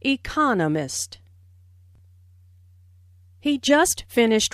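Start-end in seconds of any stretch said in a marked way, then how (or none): 0.0-1.2 "economist" said eCONomist; four syllables, "economist" peaking on the second; second-syllable stress. Shown as a demonstration. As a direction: punch the CON in "economist". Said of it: "with the stress on the second syllable".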